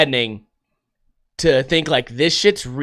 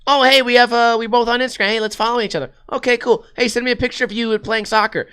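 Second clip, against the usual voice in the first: higher, fake-chummy voice of a predator chatting up a kid; creepy friendly predator; 7 semitones higher than usual. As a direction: ham up a fake-friendly stranger luring a kid. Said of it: "And he goes".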